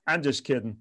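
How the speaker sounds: laughing. Retold or imitated. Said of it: "And he goes".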